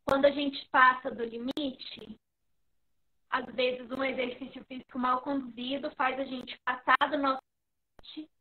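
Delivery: choppy, dropping internet audio; connection breaking up. Real, not acted. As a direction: voice cutting out on a bad line. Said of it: "Tá falhando, eu não tô te ouvindo direito".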